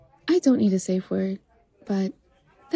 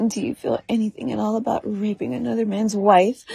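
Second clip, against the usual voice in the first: ordinary talk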